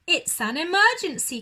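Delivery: high, loud, fast cry; shouting. Acted. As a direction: make it sound urgent and alarmed. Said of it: "cried Aussie".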